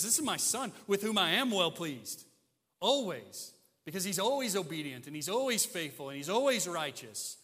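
loud, driving sermon delivery; emphatic preaching. Real, not acted. Preacher to congregation on the Son's perfect record, emphatic. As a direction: preach it with rising conviction.

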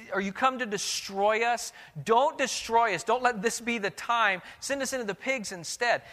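high, pleading voice of a frightened spirit; pleading demon. Acted. The demon begs Jesus to spare it, high and pleading. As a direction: beg not to be destroyed, pitched high. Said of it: "what this demon here is saying is".

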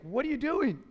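lightly acted, puzzled challenge; trainer's challenge. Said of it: "the trainer comes, he's like".

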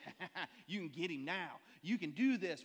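a lightly voiced devil, mock laugh; devil Jerry. Devil on Jerry's shoulder egging him on, hammed-up. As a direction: tempt him with a sly cackle. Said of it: "the devil version of Jerry that goes".

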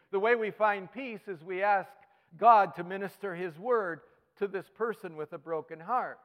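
ordinary talk

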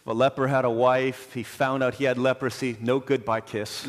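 subdued, sorrowful. Real, not acted. Preacher telling of a leper leaving his wife, subdued.

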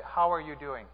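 subdued question with falling end; mildly downcast. Acted. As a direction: ask it as if feeling low. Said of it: "the most down person in this church".

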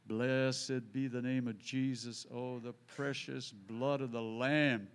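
a fervent prayer said slow and loud enough to overhear; slow loud praise prayer. Acted. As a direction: praise Jesus aloud, slowly, so it carries. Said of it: "I just kept on for about ten minutes".

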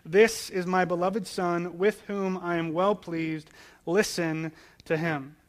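slow, weighty reading of the heavenly voice; slow solemn proclamation; solemn voice of God. Acted. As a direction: let each word of God land slowly. Voice from heaven read aloud.

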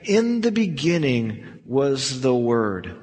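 gently, like opening a story; soft. Retold or imitated. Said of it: "with softness and say".

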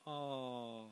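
very soft, low, drawn-out "oh"; hushed, low mock-sympathy "oh"; mock sympathetic "oh". Shown as a demonstration. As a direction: model a pitying audience sigh, quietly. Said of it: "good time for you to go".

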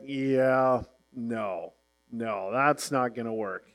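a low verdict from the producer; producer dismissive. Retold or imitated. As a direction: let them down flatly. Producer voiced rejecting them.

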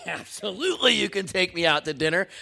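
eager acceptance. Retold or imitated. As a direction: jump at the dinner offer with gusto. Eager yes to free dinner.

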